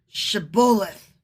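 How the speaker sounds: "Shibboleth" begun with a slow SH sound; SH pronunciation. Shown as a demonstration. Gileadites testing a fugitive, "Shibboleth" with initial SH. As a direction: say "Shibboleth" with SH at the start. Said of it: "shibboleth versus sibboleth".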